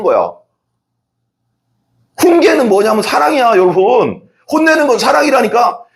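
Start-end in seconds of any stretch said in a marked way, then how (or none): 2.2-5.8 fervent insistence. Real, not acted. Preacher insists, rising passion.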